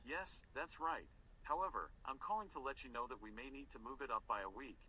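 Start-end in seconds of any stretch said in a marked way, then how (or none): 0.1-1.1 slow whisper. Acted. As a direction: whisper slowly into the phone. Editor whispers too.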